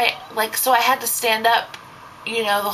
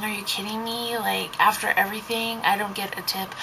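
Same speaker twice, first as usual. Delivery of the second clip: hurt disbelief; 6 dB quieter than usual. Retold or imitated. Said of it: "I'm thinking".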